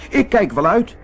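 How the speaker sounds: high piglet voice, defiant; squeaky little pig saying no. Acted. Biggetje weigert de wolf. (hoog eigenwijs biggetje)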